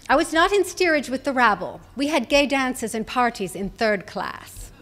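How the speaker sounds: light imitation of a proud Irish brogue; mild Irish brogue, as grandmother boasting to Kelly. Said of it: "her musical Irish brogue".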